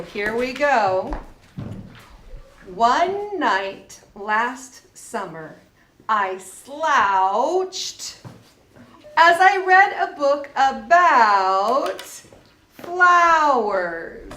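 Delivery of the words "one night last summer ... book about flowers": put-on slow, deliberate read-aloud for young learners; slow story reading. Teacher reads a story to the children, slow and clear. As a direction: read it out slowly so each ow sound lands.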